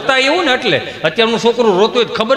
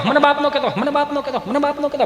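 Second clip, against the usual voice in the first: high, softer repeats dying away; echo; 6 semitones higher, 5 dB quieter than usual. Acted. Father's warning bouncing back, as fading echoes. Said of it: "પડઘા મળ્યા પડવા".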